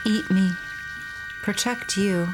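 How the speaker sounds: eerie, halting doll voice, word by word; slow haunted doll, each word alone; too calm creepy doll. Acted. Doll's faint voice continues.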